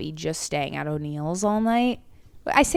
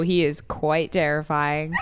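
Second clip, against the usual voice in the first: laughing. Real, not acted. Laughing about scary ex.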